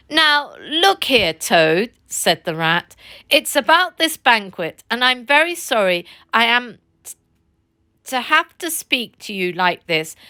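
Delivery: lightly voiced earnest Rat; stern but kindly friend, lightly voiced. Rat speaks to Toad.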